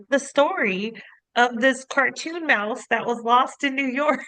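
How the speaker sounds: high, slow, drawn-out mock weepy voice; mock bawling. Wife tells husband about the lost cartoon mouse, mock-tearful. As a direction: imitate yourself tearfully retelling a sad cartoon. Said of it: "I'm, like, bawling".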